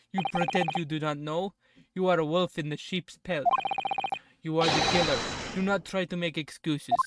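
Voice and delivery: put-on a modest Russian officer accent, accusing. Officer accusing the sleepy suspect, in a light Russian accent. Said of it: "I know my Russian accent isn't that good".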